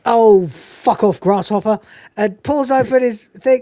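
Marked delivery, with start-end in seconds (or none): 0.1-1.8 slightly acted, loud drawn-out brush-off; dismissive reverend. Narrator voices the Reverend rebuffing Nicholas, mildly hammed dismissal. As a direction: stretch out a mock irritated dismissal. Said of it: "And the Reverend says".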